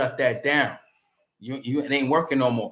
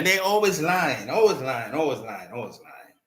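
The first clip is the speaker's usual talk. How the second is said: fading repetition. Real, not acted. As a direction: let it die away line by line. Repeated chant fading out.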